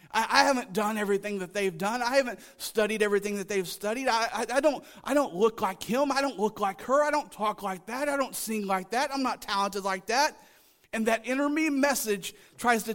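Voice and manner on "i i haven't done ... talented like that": acted string of excuses, building; mock self-doubting protest. Preacher voices believer making excuses to God, mock protest. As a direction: pile up the excuses, lightly exasperated.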